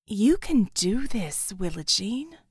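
a light hint of an old grandmother, slow and encouraging; lightly voiced grandma, slow and steady; grandmother's voice. A narrator's reading. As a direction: gently urge her on like a loving gran. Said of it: "in her grandmother's voice".

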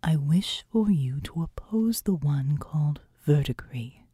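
low, wistful whispered seraph; a hint of a weary angel; sighing angel. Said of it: "she said and sighed".

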